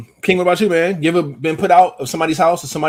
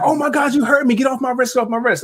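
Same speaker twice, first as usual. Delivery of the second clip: put-on girl's voice pushed much higher, whiny protest; mock girl in pain; 9 semitones higher than usual. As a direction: play her squealing at being gripped, pitched way up. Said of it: "And she was like".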